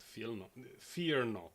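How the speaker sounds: soft, slow and soothing; calm them down gently. Pretend. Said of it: "my soothing A S M R voice".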